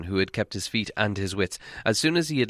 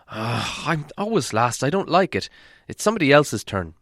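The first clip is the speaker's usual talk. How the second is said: grumbling fat dwarf; 5 semitones higher than usual. Acted. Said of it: "still grumbling".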